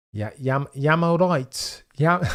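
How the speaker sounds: a light attempt at a Brummie accent. Shown as a demonstration. Streamer greets a fellow Brummie in a light Birmingham accent. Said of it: "can't even do it. I've lost the accent".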